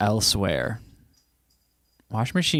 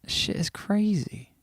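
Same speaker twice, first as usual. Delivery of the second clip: amazed; 9 semitones higher, 4 dB quieter, slower than usual. Real, not acted. Reacting to the noisy washer.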